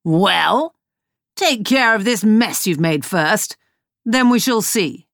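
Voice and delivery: a sneering captain voice; mock the fool with lordly scorn; scornful pirate captain. Hook berating the clumsy servant, scornful captain voice. Hook orders the mess cleaned.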